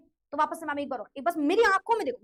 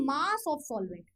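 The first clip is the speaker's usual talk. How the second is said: slow stress; much slower than usual. Shown as a demonstration. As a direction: slowly spell out Mass of solvent, each word stretched. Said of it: "मतलब नीचे हम क्या रख रहे हैं?".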